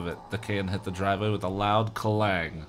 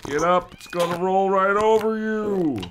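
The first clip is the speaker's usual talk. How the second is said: higher, louder warning cry; frantic cry; 9 semitones higher, 6 dB louder than usual. Acted. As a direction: yell at him to move. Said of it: "Andy cried".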